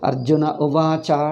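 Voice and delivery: "Arjuna Uvacha" with each letter clearly stressed. Shown as a demonstration. Teacher shows how we say it, stressed "Arjuna Uvacha". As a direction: give "Uvacha" a full, clear cha. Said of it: "we say".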